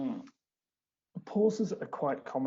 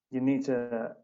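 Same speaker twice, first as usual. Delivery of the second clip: whisper. Real, not acted.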